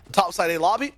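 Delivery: building hype play-by-play; esports caster. Acted. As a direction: call every shot with rising energy. Live play-by-play casting.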